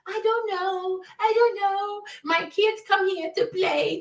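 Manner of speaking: high, singsong whiny mimicry; mocking imitation. Mimics the woman's dithering excuses.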